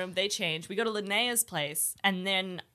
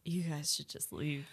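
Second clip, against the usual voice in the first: gentle warning; 7 semitones lower, 11 dB quieter than usual. Retold or imitated. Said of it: "He was just like".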